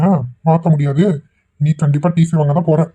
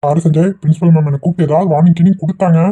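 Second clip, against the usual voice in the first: louder, firm warning; raised warning; 6 dB louder than usual. Acted. Father warning his son not to get caught, loud. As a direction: lay down the law loudly.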